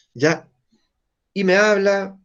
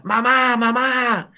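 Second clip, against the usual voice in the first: a higher, lightly voiced toddler calling "Mamá"; child calling mom; 7 semitones higher, much slower than usual.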